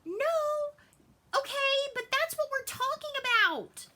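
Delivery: put-on high, loud kid voice insisting; a child's indignant high-pitched no; daughter's protest. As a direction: squeal it like a kid correcting the grownups. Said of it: "She goes".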